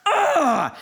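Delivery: high, exasperated "ugh"; worked-up growl of frustration; steaming groan. Retold or imitated. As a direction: let out a mock-furious groan. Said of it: "steaming now".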